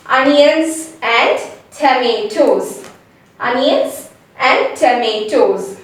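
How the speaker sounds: "onions and tomatoes" as "ah-nyanz and tuh-may-toz"; spaced-out words, "onions" and "tomatoes" ending in Z; careful model pronunciation. Shown as a demonstration. Teacher sums up the corrected words, careful model pronunciation. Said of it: "So totally it's".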